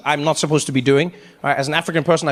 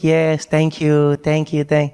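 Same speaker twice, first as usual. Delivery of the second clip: strained host thanks; 4 semitones lower, much slower than usual. Retold or imitated. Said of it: "He's like".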